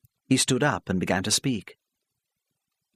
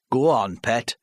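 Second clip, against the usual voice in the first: apologetic; 4 dB louder, slower than usual. Acted. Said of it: "turned apologetically".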